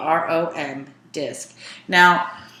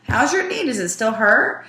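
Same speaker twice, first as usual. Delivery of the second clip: caring question; 5 semitones higher, 3 dB louder than usual. Acted. Teacher voicing Dan's question.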